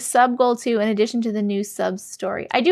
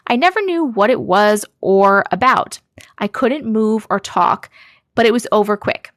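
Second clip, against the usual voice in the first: lively, emphatic read-aloud; story reading; 3 dB louder than usual. A narrator's reading. Streamer reading a viewer's sleep paralysis story, emphatic narration. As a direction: read it out with punched key words.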